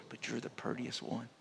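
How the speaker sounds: very soft tender whisper; hushed imitated whisper, almost silent; mother whispering. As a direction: breathe it like a sweet nothing. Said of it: "she whispers".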